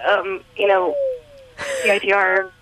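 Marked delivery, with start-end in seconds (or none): 1.8-2.5 robotic, tinny phone sound; tinny phone line. Real, not acted. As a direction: heard through a glitchy phone. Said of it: "you sound like a robot right now".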